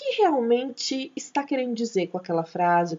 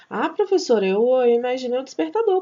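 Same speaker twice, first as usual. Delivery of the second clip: mock student voice; 3 semitones higher, faster than usual. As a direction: pipe up like a pupil with an idea. Teacher voicing a student. (a professora imitando um aluno, voz mais aguda e rápida)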